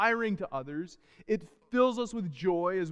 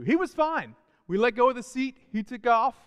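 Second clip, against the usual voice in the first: higher and louder, thrilled storytelling; excited; 6 semitones higher, 5 dB louder than usual. Real, not acted. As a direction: let the surprise burst out, much higher and louder. Excited climax of bike story.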